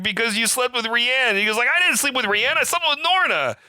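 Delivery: hammed-up shouting in the water; mock heated yell. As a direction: escalate the shouting match. Retold fight in water.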